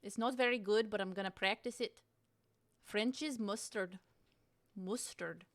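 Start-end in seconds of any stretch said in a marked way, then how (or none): 2.8-5.4 put-on Scottish accent try. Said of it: "practicing my Scottish and kind of, uh, an Irish accent".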